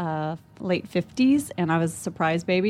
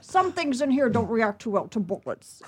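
Sean Connery impression. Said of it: "I did Sean Connery".

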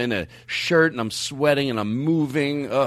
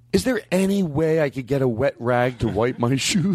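meek, timid request in a put-on voice; Brian Regan voice. A comic to a worker asking for a rag, meek put-on voice. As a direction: ask for a wet rag like a meek little man. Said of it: "and I did it with that voice".

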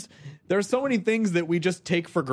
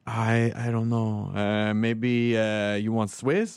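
put-on slow, lower Latino accent; 6 semitones lower, much slower than usual. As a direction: imitate the diner guy's Latino accent. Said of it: "I apologize for doing a Latino guy accent".

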